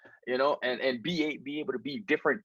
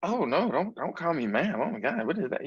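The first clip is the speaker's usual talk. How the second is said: higher-pitched imitated protest; mock objection; 5 semitones higher than usual. Outsiders objecting to "ma'am", imitated indignation. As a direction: act out someone put off by being called ma'am. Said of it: "people are like".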